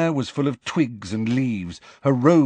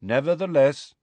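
calm; 5 semitones higher than usual. A narrator's reading. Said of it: "said Megorian calmly".

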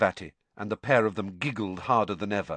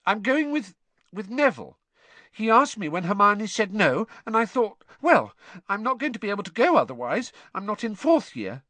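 put-on high-pitched, embarrassed girl; miserable girl; 12 semitones higher, 4 dB louder than usual. Ginny admitting she's going with Neville, miserable. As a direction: confess it awkwardly, pitched well up. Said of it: "She looked extremely miserable".

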